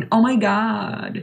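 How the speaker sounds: drawn-out mock Greek-accented English. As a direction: imitate a thick Greek accent, very slowly. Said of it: "η ελληνική προφορά". (μίμηση ελληνικής προφοράς στα αγγλικά)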